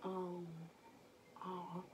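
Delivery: slow soft dazed ums; spaced-out ums. Retold or imitated. Stoned girl chewing in slow motion, spaced out. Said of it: "in outer space ... just moving like".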